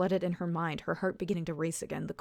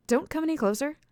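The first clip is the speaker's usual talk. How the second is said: higher, louder warning; 9 semitones higher, 5 dB louder than usual. A narrator's reading. Alice warns the stranger not to come closer, firmly. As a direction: keep him back, firm.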